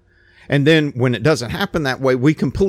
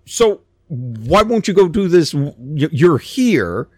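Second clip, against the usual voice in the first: a hint of servants gently pressing their master; coaxing servants; 4 semitones higher than usual. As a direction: urge him on like a pleading servant, lifting the pitch. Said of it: "And they're like".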